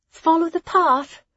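high, loud call after departing friends; calling after them. Acted. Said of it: "Hessa called after them".

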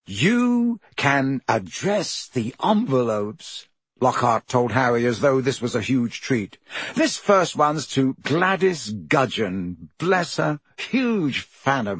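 slow, indulgent celebrity drawl; lightly voiced Lockhart. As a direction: hand out a chore as if it were a treat. Lockhart condescending.

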